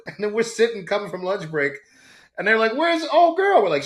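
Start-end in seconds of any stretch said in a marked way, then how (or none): 2.7-3.6 a light high-pitched coworker voice, a bit louder; mildly voiced coworkers asking where she went; curious coworkers. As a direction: toss it off like nosy office mates. Coworkers asking after arrest.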